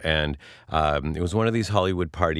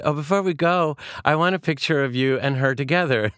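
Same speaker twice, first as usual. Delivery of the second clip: imitating an eager friend, much higher pitch; friend's eager request; 8 semitones higher than usual. Friend asking for a picture before leaving, eager. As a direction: lift the voice high for a mock-eager request. Retells friend wanting a photo.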